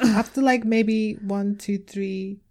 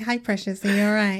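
put-on Manc accent. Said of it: "I'm doing a Manc accent now".

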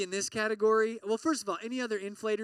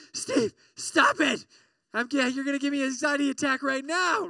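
mock panicked plea; 6 semitones higher, 5 dB louder than usual. Listener begging Steve to stop, mock panic. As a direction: play a flustered listener begging him to quit. Audience member begs speaker stop.

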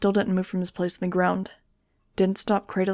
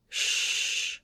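soft unvoiced shush; hushing whisper; 6 dB quieter than usual. A narrator's reading. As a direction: hush her gently. Hushing dying girl.

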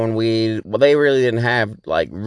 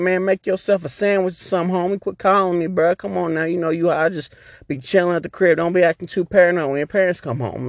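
friend's voice; 6 semitones higher than usual. Retold or imitated. Friend Joe's advice voiced.

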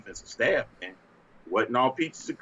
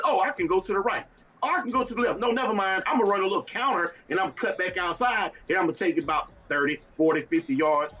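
mock running back; 6 semitones higher, faster than usual. Imitating running backs choosing holes.

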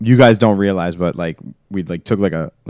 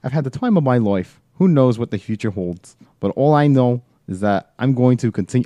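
put-on British accent; 4 semitones higher than usual. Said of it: "I gotta do this in a British accent".

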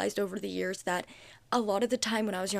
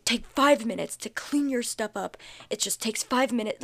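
louder, pressing on five; irritated scolding; 4 dB louder than usual. Shown as a demonstration. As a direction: snap it like a fed-up parent. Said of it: "but your tone isn't".

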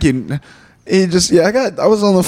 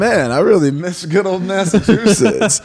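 sarcastic; 5 semitones higher, slower than usual. Retold or imitated. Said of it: "I was like".

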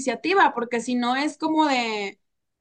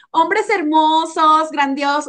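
friendly flattery; 4 dB louder, slower than usual. Retold or imitated. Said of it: "es hablarles como les hablo a ustedes".

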